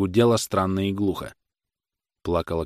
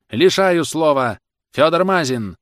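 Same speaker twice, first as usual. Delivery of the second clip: slow, higher, louder ruling; stern order; 7 semitones higher, 6 dB louder, slower than usual. Acted. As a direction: bark out the ruling. Judge silences and calls next.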